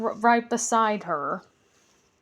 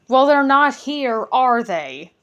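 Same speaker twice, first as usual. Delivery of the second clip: grumbling goblin; 3 semitones higher, 7 dB louder than usual. Acted. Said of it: "grumbled the other one".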